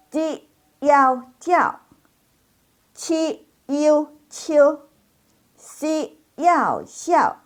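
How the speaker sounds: high initials, finals carrying their tones; following the tones. Shown as a demonstration. Teacher leading class, spelling syllables with exaggerated tones. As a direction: spell out each syllable, spaced, in tone. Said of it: "Jadi ikuti nadanya".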